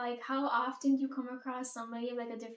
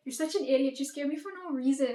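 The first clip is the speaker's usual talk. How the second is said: playful scolding; 3 semitones higher, 5 dB louder than usual. Retold or imitated. Scolding landlord after needless scare.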